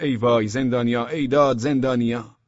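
moderately loud cries, one after another; mild shouts of alarm in a chain; repeated alarmed shouting. A narrator's reading. (داد زدن پشت سر هم)

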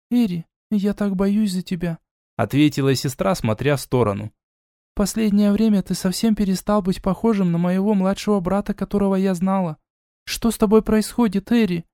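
anxious younger sister pleading; lightly voiced sister, a touch sad; worried sister. A narrator's reading. Eda worried about brother.

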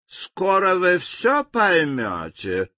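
smooth, exquisitely polite; silky politeness, slow; refined courtesy. Acted. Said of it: "с утончённой любезностью молвил король".

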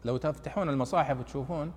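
usual speaking voice

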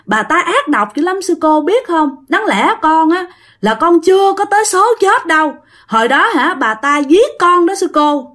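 imitated wailing child. Child spirit telling the nun it was killed, plaintive outcry. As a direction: plead the accusation like a wronged child. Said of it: "Lúc đó dì của bạn mới gào lên".

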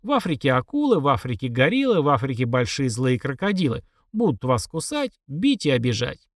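rhythmic nursery rhyme reading; poem recitation. Retold or imitated. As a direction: recite it like a children's verse. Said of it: "Как советовал нам Корней Чуковский".

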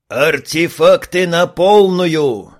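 slow, loud order; loud command. Acted. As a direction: call the order out slowly. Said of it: "скомандовал ягер".

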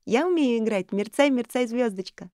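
высоким громким детским голосом; радостно зовя тётю; детский возглас. A narrator's reading. Шарлотта хвастается. (девочка восторженно зовёт тётю Нори)

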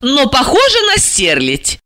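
jealously. A narrator's reading. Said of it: "ревниво вставила Ася".

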